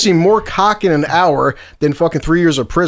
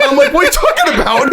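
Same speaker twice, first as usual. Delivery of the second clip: much higher, laughing through the words; laughing through quote. Real, not acted. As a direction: crack up while retelling the question. Retelling the call while laughing.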